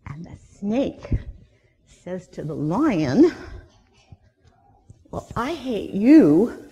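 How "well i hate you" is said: louder, drawn-out grumble; slow it down and push it louder; slow, emphatic, louder gripe; slow loud complaint. Acted. Snake voiced, loud lion.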